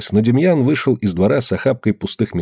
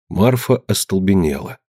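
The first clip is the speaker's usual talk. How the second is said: ordinary delivery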